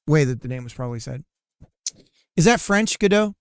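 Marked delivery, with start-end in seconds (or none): 2.4-3.4 exasperated outburst. Real, not acted. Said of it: "loud exasperated question".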